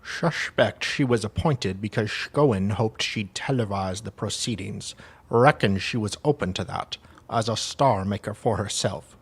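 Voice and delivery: lightly put-on Russian accent; amateur Russian-accented reading. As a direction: read it out with a mock Russian accent. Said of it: "I'm doing a Russian accent".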